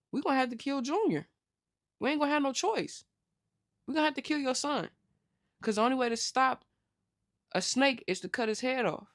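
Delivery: a retold conspirator, pushed up high; plotting mother. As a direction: urge it quickly, like a cold plotter. Consuela plotting to kill Junior.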